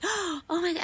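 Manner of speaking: high excited gasp of delight; excited child. Retold or imitated. As a child spotting a horse, high excited exclaim. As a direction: squeal it like a horse-mad kid.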